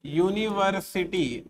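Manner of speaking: यूनिवर्सिटी drawn out slowly, opening with a yu sound; slow model of यूनिवर्सिटी for students; slow pronunciation demo. Shown as a demonstration. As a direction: spell out यूनिवर्सिटी slowly, leaning on the yu. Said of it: "इसका pronunciation".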